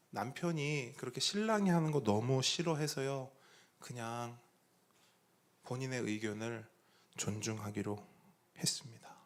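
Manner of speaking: a mother trailing off into a hushed admission; quiet resigned reply. Retold or imitated. Mother admitting to the pastor she let it go, fading to whisper. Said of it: "이렇게 얘기하는 거예요".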